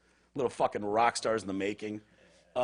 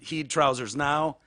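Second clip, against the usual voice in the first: Scottish accent; slower than usual. Shown as a demonstration. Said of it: "if it's not Scottish, it's crap".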